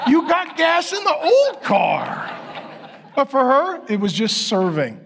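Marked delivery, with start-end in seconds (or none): 0.1-2.3 high, slow words through laughter; amused, laughing punchline. Real, not acted. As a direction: laugh at how little it was. Laughing at small gift.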